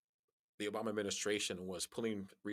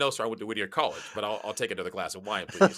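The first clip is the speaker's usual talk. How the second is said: playful; 8 dB louder than usual. Retold or imitated. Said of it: "I said".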